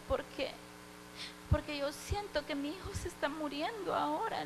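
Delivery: choking up, voice going quiet; fighting back tears as she retells it; quiet tearful plea, near crying. Retold or imitated. Mother fearing son is dying.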